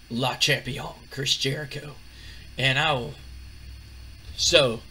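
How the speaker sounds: lightly voiced conceited wrestler, halting phrases; cocky Chris Jericho. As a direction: retell a smug brush-off in measured chunks. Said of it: "he's so full of himself".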